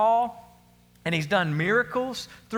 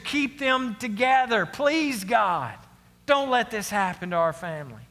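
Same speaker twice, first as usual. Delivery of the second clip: desperate pleading prayer; 3 semitones higher than usual. Acted. Acted desperate prayer to God.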